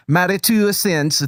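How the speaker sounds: second go at a fake Scottish accent; wobbly mock Scottish accent; attempted Scottish accent. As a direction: try to pull it back into Scottish. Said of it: "so Scottish accent?".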